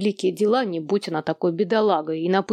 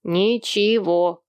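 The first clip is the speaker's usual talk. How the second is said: shouted; much slower than usual. A narrator's reading. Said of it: "крикнул Эрни".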